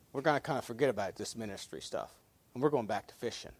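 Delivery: quick, soft, offhand dismissive voice; mock offhand quote. Disciples shrugging off the ministry, quick and quiet. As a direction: toss it off like a man quitting. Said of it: "what they really meant there".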